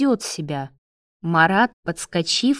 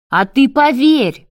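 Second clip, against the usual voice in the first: yelled in rage, higher and much louder; furious yell; 7 semitones higher, 8 dB louder than usual. Acted. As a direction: roar it at him in fury. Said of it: "проорал в ярости Марат". (яростно проорал)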